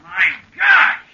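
high startled shout; surprised shout. Acted. Friend seeing the giant Major, shocked shout. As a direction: blurt it out in shock. Sees husband grown huge.

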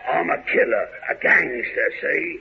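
tough gangster voice. Pretend.

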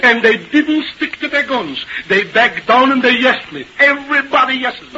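acted indignant tirade; exasperated rant. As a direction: complain bitterly, dragging out the grievances. Boss rants about spineless playwrights.

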